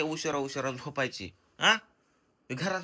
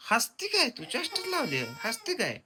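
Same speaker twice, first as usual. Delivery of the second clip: laughing tease; 5 semitones higher than usual. Real, not acted. Teasing, laugh heard.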